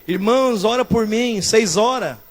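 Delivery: imitated plaintive prayer request, softened; put-on moan opening into a mild plea; mock pleading sufferer. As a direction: plead lightly like a sorry church member.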